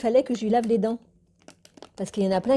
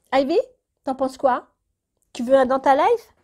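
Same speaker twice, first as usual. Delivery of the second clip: high, louder pet-talk voice; talking to the cat; 5 semitones higher, 5 dB louder than usual. Real, not acted. Owner offering her cat Ivy a treat, in a high coaxing voice.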